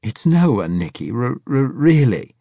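high, loud nervous stutter; stammering old man. A narrator's reading. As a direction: stutter out a weak lie.

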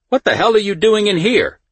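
very high, loud incredulous demand; appalled outburst. A narrator's reading. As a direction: exclaim it, shocked and outraged. Official appalled to find him jailed.

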